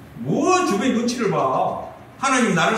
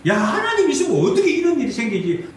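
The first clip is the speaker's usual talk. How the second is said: raised, incredulous complaint; acted indignant doubt; 4 semitones higher than usual. Believer questioning God over hardship, indignant disbelief.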